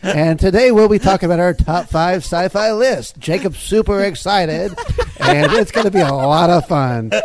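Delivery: booming movie trailer announcer. Acted. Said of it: "that's my trailer voice".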